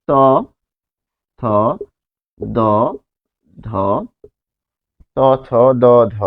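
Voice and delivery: ত, থ, দ, ধ each said alone with pauses, tongue tip on the upper teeth; demonstrating dental consonants. Shown as a demonstration. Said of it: "দেখুন".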